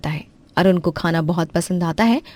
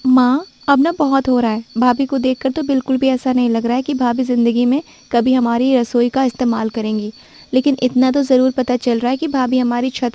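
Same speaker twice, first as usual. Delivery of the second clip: put-on lightly higher young woman complaining to mother; complaining sister-in-law; 5 semitones higher than usual. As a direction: whine a little to mother about her sister-in-law. (थोड़ी ऊँची आवाज़ में शिकायत करती ननद)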